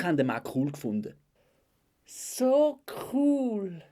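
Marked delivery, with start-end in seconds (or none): 2.1-3.8 high, drawn-out swooning squeal; gushing squeal. Acted. Girl admiring the man in the bar, gushing squeal. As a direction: squeal it like a smitten fan.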